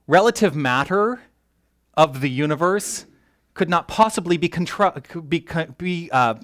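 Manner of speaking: eager and tongue-tangled, restarting the phrase; excited, tripping over words. Real, not acted. Lecturer explaining the universe's matter, so excited the words tangle. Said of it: "I'm getting so excited, I'm tripping over my own words".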